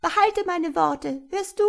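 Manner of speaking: high, squawky imp voice; spiteful, high-pitched taunting; grinning malicious creature. A narrator's reading. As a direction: gloat in a high goblin voice. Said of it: "sagte es grinsend".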